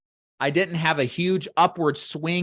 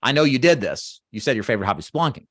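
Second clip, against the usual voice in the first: confident statement; much faster than usual. Shown as a demonstration. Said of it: "this is like a confidence thing".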